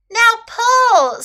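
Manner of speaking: high, loud command; calling out. A narrator's reading. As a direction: call the order out with force. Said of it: "Snake called to Little Elephant".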